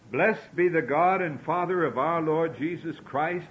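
reading fast without pausing to breathe; all in one breath. Shown as a demonstration. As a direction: push through the long sentence on one breath. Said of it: "Let's try it ... without taking a breath".

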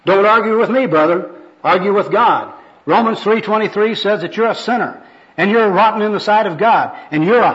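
loud, high-pitched rebuke; forceful sermonizing; zealous street evangelist. Acted. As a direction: scold the sinner in God's name. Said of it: "This is the first personal worker".

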